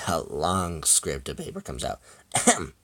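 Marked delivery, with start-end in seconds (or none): 2.3-2.7 throat clearing before reading. Acted. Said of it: "he reads".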